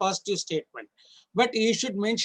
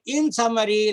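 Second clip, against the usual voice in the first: "summary" lifted and pushed a little louder; stress on summary; 3 semitones higher, 5 dB louder than usual. Shown as a demonstration. Trainer showing judges the cue phrase, "summary" stressed. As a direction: lean on the word "summary" as a signal phrase. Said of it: "I want to emphasize this word summary".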